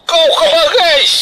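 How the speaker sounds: proud laughing. Acted. Father boasting of teacher daughter.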